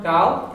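gal said loud and clearly for the class to repeat; model pronunciation. Shown as a demonstration. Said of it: "So we'll say the first one".

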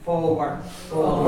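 forward said twice with a touch of nasal closed O; teacher modelling the Ulster word; slightly nasal forward. Shown as a demonstration. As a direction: let forward ring a wee bit in the nose. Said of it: "a wee bit nasal as well".

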